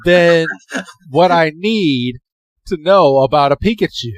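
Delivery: lightly voiced sassy know-it-all. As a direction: play it diva-ish and exasperated. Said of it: "He's like".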